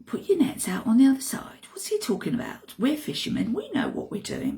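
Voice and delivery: fast, whispered scoffing; incredulous mutter. Acted. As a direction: mutter it back, unconvinced. Fishermen scoff at the advice.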